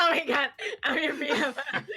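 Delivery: laughing through the words; giddy laughing. Real, not acted. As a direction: gush it while laughing. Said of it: "I'm like".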